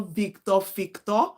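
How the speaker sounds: "Victor" with the V turned to an F, like "Fictor". Shown as a demonstration. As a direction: say "Victor" with an F sound at the start. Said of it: "your V converting into F".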